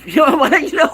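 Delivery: high laughing burst. Real, not acted. Laughing at the online critics. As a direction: laugh through the words.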